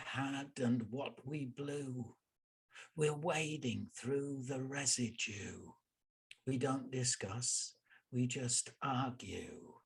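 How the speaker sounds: measured poetry reading, landing on each rhyme; poem recitation. Acted. Poet reads a piece called No Messages to listeners, measured recitation. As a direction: recite with deliberate pauses between lines.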